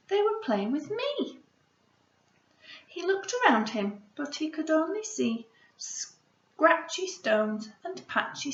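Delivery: gentle picture book read-aloud; story reading. Acted. Teacher reads picture book aloud.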